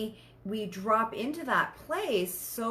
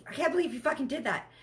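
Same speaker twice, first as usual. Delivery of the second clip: jealous outburst; 6 semitones higher, faster than usual. Retold or imitated. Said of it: "you're like".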